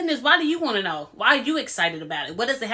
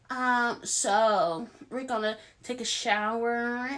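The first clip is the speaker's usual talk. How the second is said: put-on slow, airheaded valley girl drawl; 5 dB quieter than usual. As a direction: imitate a ditzy valley girl, slowly. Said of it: "She started talking like a valley girl".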